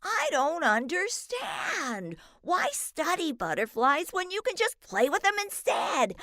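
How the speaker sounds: a big confused puppy outcry; mild bellow. A narrator's reading. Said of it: "Roscoe bellowed".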